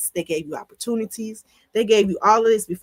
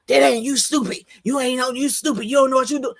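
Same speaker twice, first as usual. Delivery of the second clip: belittling; 5 semitones higher than usual. Retold or imitated. Harsh belittling example quote.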